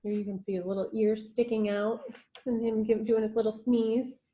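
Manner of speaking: ordinary delivery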